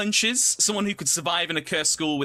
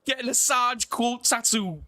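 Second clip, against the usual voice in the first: Geordie accent; 6 semitones higher than usual. Shown as a demonstration. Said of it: "in a Geordie accent".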